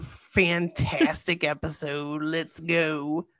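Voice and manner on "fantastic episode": slow, slurred and sleepy. Real, not acted. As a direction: drag the words out, exhausted. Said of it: "Why do you sound like you're drunk?".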